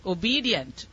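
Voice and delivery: "Obedient" said as o-BEE-dee-ent; clear, deliberate "Obedient" for the speller; stressed E sound. Shown as a demonstration. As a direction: bring out the E in "Obedient". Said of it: "You missed the E sound".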